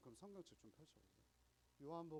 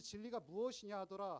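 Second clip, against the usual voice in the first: louder, scoffing mock question; sarcastic; 5 semitones higher, 9 dB louder than usual. Pilate sneering at Jesus about truth, loud sarcastic scoff. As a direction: toss it off with a sneer. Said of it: "비꼬기 시작해요".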